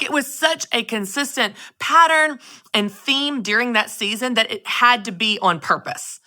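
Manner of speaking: normal talking voice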